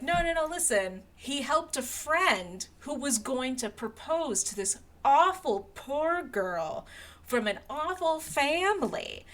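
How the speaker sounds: a chatty cousin dishing gossip; gossipy Fitzwilliam. Retold or imitated. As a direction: spill the gossip like it's delicious news. Fitzwilliam gossiping about Darcy.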